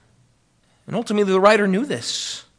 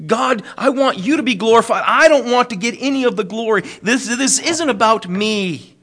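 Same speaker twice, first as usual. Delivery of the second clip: earnest, raised-pitch plea, slowing at the end; serious prayer; 4 semitones higher than usual. Acted. Psalm writer giving God all the glory, serious and earnest. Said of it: "There's a seriousness to this".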